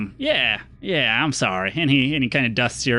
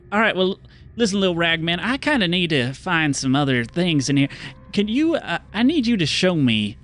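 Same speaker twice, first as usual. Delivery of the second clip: friendly stranger; 2 semitones higher than usual. Acted. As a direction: greet them like a smiling cowboy. GM voices the stranger.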